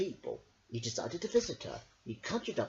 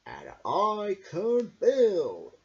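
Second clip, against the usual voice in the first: shouted; 4 semitones higher, 7 dB louder, much slower than usual. A narrator's reading. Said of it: "he shouted".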